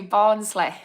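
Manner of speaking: mock Barnsley accent on the town's name; badly faked Barnsley accent, ending on a falling tune. Shown as a demonstration. Naming the nearby town to viewers, in a bad Barnsley accent. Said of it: "That was a very bad Barnsley accent".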